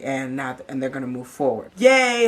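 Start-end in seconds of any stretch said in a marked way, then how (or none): 1.8-2.3 high, loud cheer of delight; yay. Real, not acted. Vlogger cheering that the couple made up, high and loud.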